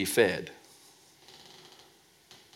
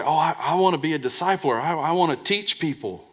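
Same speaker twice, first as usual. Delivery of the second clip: higher, faster imitation of a would-be discipler; sing-song mock piety; mock eager church member; 5 semitones higher than usual. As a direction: mimic someone angling for respect. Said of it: "they say".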